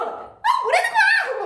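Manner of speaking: very high, wailing sob-voice; hammed-up tearful whine; mock wailing. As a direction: wail it like a sulking crier. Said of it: "하고 울고 있어요".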